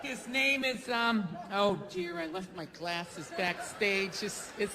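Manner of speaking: put-on slow, low, doddering old announcer; fumbling announcer. Old emcee stalling while introducing the next speaker, slow and low. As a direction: squint and stall like an old emcee who lost his glasses.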